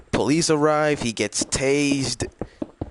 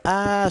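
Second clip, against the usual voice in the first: mock panicked scream; 10 semitones higher than usual. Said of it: "screaming and panicking".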